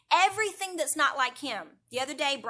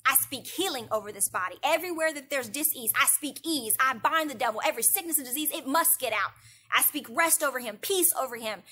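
put-on firm, louder commanding prayer over a sick child; authoritative prayer; 3 dB louder than usual. Mother praying over her crying baby, with firm authority. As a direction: speak it with authority, not yelling. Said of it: "I began to pray loudly, not just yelling and screaming, but with authority".

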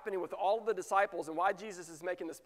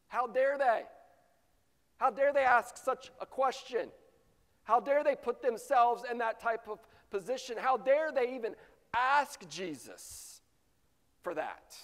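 raised, higher, louder indignant cry; how dare they, say it outraged; indignant disciples, louder and higher; indignant outrage; 5 semitones higher, 3 dB louder than usual. Acted.

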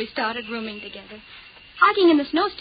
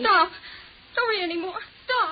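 frightened pleading; 3 semitones higher than usual. Acted. Frightened by the epitaph.

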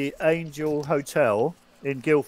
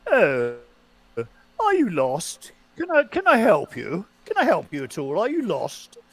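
posh Roger Moore voice; 3 semitones higher than usual. Retold or imitated. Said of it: "he's got that very posh voice".

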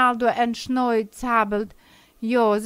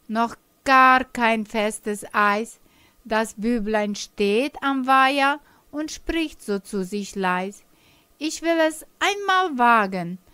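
put-on measured recital of a children's poem; poem recitation. A narrator's reading. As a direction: recite the verses to the kids. Ein Gedicht vertellen. (Gedichtvortrag für Kinder)

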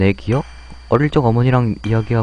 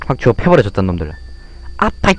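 put-on higher, louder scolding girl voice; indignant little girl; 9 semitones higher, 5 dB louder than usual. Girl defending the boy from bullies, indignant and loud. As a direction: stand up to the bullies, fired up.

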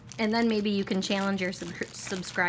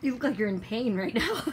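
laughing; 2 semitones higher than usual. Real, not acted. Laughs while talking.

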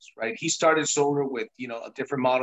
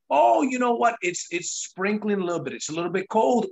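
higher, whiny excuse-maker; mock the lazy excuse in a raised voice; hammed-up excuse; 5 semitones higher than usual. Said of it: "I didn't let".

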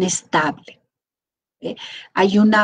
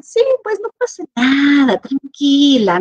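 calm husband; 6 semitones higher, 4 dB louder than usual. Retold or imitated. Calm husband soothing wife.

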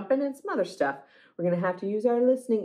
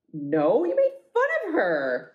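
mock-offended owner, pitch jumping high; acted high-pitched huff; offended refusal; 3 semitones higher than usual. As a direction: refuse in a hurt, rising voice.

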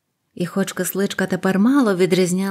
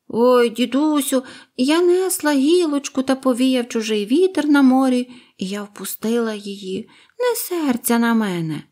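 high, pleading bird voice; apologetic little bird; 5 semitones higher than usual. Acted. Bird pleads with grandfather, high and sorry. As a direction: sweetly beg forgiveness.

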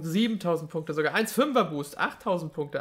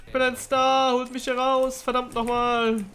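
mock dramatic plea; 6 semitones higher, 3 dB louder than usual. Joking plea mid-game.

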